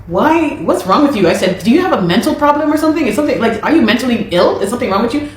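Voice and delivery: high-pitched, indignant questioning; retold outraged confrontation. Woman confronting her insulting manager, retold with high indignant outrage. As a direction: fire back at him in disbelief.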